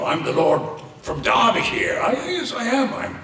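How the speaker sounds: put-on broad Derbyshire accent, pitched high; comic high-pitched Derbyshire lord accent; local English accent. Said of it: "They all had local accents".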